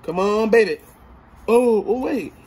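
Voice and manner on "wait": normal talking voice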